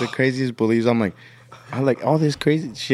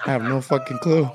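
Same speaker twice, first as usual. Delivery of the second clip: hammed-up clueless protest; exaggerated exasperation. Grandson asked what they're eating today, hammed-up exasperation. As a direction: exaggerate being totally at a loss. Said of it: "I wasn't talking like this".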